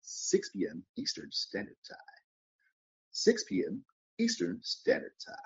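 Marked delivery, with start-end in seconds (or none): 3.1-5.3 sing-song high announcer take; high put-on voice. Shown as a demonstration. Announcing the show time in a high put-on voice. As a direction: repeat the time pitched way up. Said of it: "I can do a whole bunch of voices".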